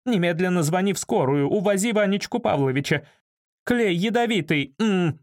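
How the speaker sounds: high, agitated orders turning to frantic calling; indignant, urgent woman. A narrator's reading. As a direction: order and plead in a high, alarmed voice. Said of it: "негодовала Валя".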